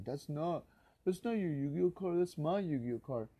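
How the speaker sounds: high, loud mocking denial voice; mocking the girl. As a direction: sneer out a bratty girl's lie. Voicing the girl denying theft.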